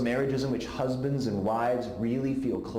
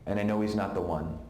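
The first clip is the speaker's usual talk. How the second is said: weeping; 3 semitones lower than usual. Retold or imitated. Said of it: "as she's weeping".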